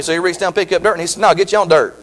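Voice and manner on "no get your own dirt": said through a laugh; a half-laughed punchline; tossing off God's line with a chuckle; chuckling. Acted. God's retort, first telling.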